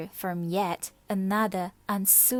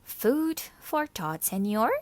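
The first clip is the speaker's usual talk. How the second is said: icy; 2 semitones higher, 3 dB louder than usual. Acted. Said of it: "Martina said icily".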